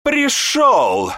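high piercing shriek of rage. Acted. Raging mage shrieks at the late apprentice. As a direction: shriek it out, furious. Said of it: "взвизгнул Трёхпалый".

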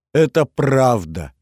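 громкий, протяжный выкрик сквозь слёзы; срываясь в плач, с нажимом и выше обычного; в слезах. A narrator's reading. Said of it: "вновь разревелась девушка". (разревевшись, надрывно)

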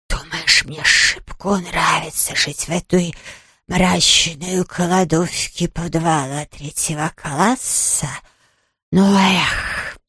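low, soft, slow sulky sniffle; sniffling. Acted. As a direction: grumble it through a runny nose. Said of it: "снова захлюпало носом".

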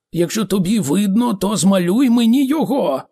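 high, loud demand; exasperated shout. A narrator's reading. Ford demands Arthur draw it, shouting. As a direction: shout the challenge, pitch climbing. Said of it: "крикнув Форд".

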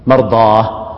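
low demo of مرضاه with final h; stopping on ha. Shown as a demonstration. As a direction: close مرضاه on a breathy h. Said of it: "يقف بالهاء".

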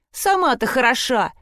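a touch of a scornful snort. Acted. Nora snorting back at Sprotte, mild scorn. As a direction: toss it back dismissively. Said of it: "фыркнула Нора".

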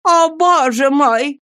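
slow, high, theatrical cry; dramatic wail. Acted. Woman pretending to find lost boy, slow dramatic cry. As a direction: overplay the relief. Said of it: "произнесла молодая женщина".

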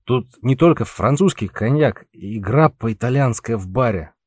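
put-on tongue-tied drunken bragging; slurring drunk. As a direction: slur the words like a drunk. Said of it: "заплетающимся языком вещал ему Пауль".

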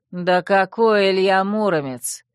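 scoffing, slow and loud; dismissive. Acted. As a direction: brush the guess aside. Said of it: "пренебрежительно мотнул головой". (пренебрежительно, с насмешкой)

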